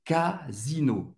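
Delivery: Casino slow and soft, with a clear Z. Shown as a demonstration. Teacher repeats Casino softly, slowly. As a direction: buzz the S in Casino. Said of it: "O S tem o som do Z".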